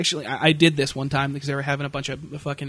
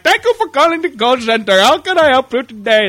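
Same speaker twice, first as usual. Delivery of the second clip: higher, louder chirpy phone operator; call center greeting; 7 semitones higher, 8 dB louder than usual. Retold or imitated. Bored agent answering the phone, chirpy and fake. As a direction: put on the fake service smile. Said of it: "I'm like".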